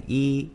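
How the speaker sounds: "y" pronounced like Chinese yī; "y" read the Mandarin way; Mandarin one. Shown as a demonstration. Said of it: "Một đọc là".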